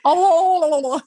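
high laughing oh; a quick Dory-style gasp; Dory imitation. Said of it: "she's like".

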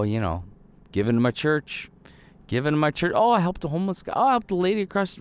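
high, showy bragging to God, as if to earn praise; mock boastful believer. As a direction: lightly ham up a churchgoer listing good deeds to God. Mocking a self-righteous believer to God.

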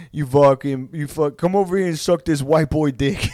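mock-aggressive fighter's accent; Nate Diaz's accent. Fighter cursing out his boss, belligerent in his accent. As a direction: taunt in the fighter's own accent. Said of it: "but just in that accent".

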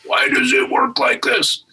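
high-pitched exasperated wail, acted; frustrated outburst. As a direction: play someone at wits' end with a computer. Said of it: "you get frustrated".

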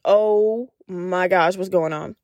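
slow, low panicked gasp; mock freaking out in the dark. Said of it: "started breaking down".

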